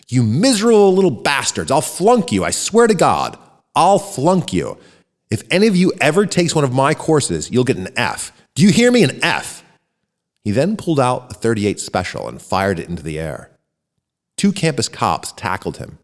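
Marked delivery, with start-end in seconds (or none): 0.1-9.6 screaming. Acted. Bernard screams threats at the laughing students over the microphone, furious. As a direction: rage at them with a rising fury. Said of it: "and screamed".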